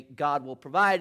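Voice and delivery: loud, earnest "God will provide" with a rise on "provide"; young man's stock answer. Retold or imitated. Suitor about to repeat his answer, said loud and earnest. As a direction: bellow "God will provide" as the cue line. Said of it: "the young man is about to say".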